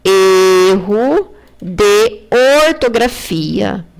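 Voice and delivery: drawn-out Erro de ortografia, each word held; slow, stressed spelling out. Shown as a demonstration. Teacher to pupils, stressing the key term, slow and drawn out. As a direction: stretch Erro de ortografia slowly so pupils notice. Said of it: "prestem bem atenção".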